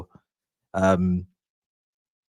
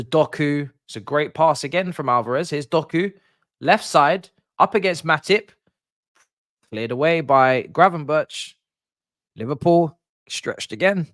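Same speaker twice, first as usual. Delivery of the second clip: higher and louder, building with the attack; excited play-by-play; 5 semitones higher, 5 dB louder than usual. Real, not acted. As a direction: call the run down the left like a commentator.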